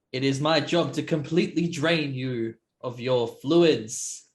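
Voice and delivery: in-character threat. Acted. Player pointing at the slave before attacking, declaimed threat. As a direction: proclaim it at your opponent.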